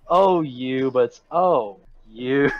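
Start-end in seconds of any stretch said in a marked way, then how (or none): 0.1-0.9 playful, friendly oh-you; the affectionate version, not dismissive; intended reading. Shown as a demonstration. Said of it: "It's supposed to be like". 1.3-2.5 oh-you said as a put-down; dismissive. Shown as a demonstration. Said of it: "She looks down".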